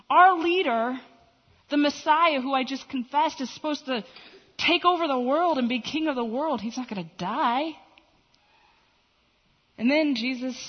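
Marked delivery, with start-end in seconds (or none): 0.1-7.8 astonished disbelief; Peter. Acted. Peter reels at news of his leader's death, astonished. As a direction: open loud and incredulous, then protest. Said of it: "Peter was just astonished by this news".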